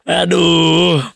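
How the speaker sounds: high, loud "Aduh" cried out; real loud groan; exasperated shout. Real, not acted. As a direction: yelp in frustration. Exclaims at losing track.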